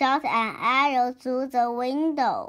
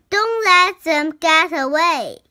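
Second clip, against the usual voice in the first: loud, raised-pitch command; shouted order; 5 semitones higher, 6 dB louder than usual. A narrator's reading. Harry urging friends to stop the runaway, shouted. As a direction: call out urgently to your helpers. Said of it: "shouted Harry".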